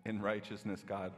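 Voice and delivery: earnest pastoral prayer. Acted. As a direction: pray it sincerely to God. Leads a prayer.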